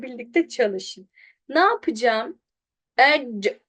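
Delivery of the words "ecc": "Ecc" stopped dead on the c; cut off short. Shown as a demonstration. Teacher showing where to stop, "Ecc" cut short. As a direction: end "Ecc" on the consonant, no vowel after. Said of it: "kes orada".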